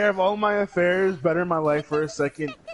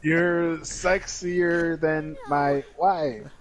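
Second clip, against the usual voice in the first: very slow, robotic text-to-speech; computer voice; much slower than usual. Pretend. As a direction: drag each word like a synthesizer voice. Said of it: "computer voice".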